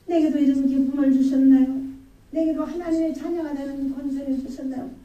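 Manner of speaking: loud, retold burst of joyful wonder; overjoyed prayer. Believer re-enacting thanks to God for new status, overjoyed. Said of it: "기쁨이 넘쳐나니까".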